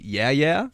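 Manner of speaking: "yeah, yeah" with a questioning rise; verbal tic. Shown as a demonstration. Host listing own verbal tics, rising "yeah, yeah". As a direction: list "yeah, yeah" as a tic, lifting the end. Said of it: "my verbal tics".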